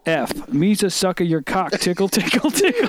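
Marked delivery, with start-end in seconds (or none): 1.2-2.9 Elmo voice. Retold or imitated. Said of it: "In your Elmo voice".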